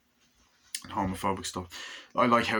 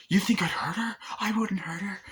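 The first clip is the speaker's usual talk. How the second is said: mock innocent; 12 semitones higher than usual. Villain menaces with fake innocence.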